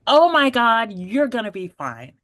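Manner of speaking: excited doctor. Retold or imitated. Doctor cheerfully reassuring her patient, imitated excited exclamation. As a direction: imitate the beaming doctor's delight. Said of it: "She's excited".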